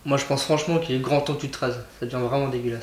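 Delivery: talking with mouth full; words round a mouthful; wolfing down food. Acted. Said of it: "tu vas vider ta bouche quand même".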